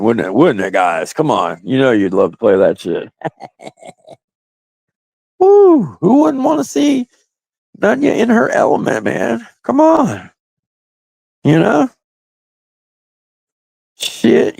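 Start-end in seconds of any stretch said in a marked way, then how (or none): 5.4-14.6 high, hyped-up whooping; excited whoop. Real, not acted. Streamer whooping up his chat. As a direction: get pumped and holler it out.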